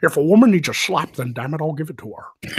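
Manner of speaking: mock Scottish accent breaking toward a laugh; Sean Connery. Co-host asked for the impression, hammed-up Scottish accent. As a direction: put on a slurred Scottish accent for a bit. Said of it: "You can do the Sean Connery thing".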